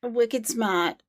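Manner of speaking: New England accent demo; own regional accent. Shown as a demonstration. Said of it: "I do my accent really well".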